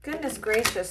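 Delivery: talking through a big yawn. Real, not acted. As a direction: yawn out the words. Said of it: "for the yawn".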